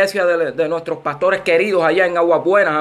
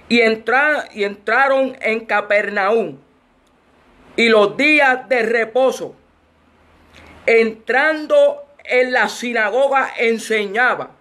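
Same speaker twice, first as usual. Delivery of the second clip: measured Bible reading with long pauses; scripture reading; 2 semitones higher, slower than usual. Real, not acted. Preacher opens the Mark passage to the congregation, measured scripture reading. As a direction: read the verse out deliberately, phrase by phrase.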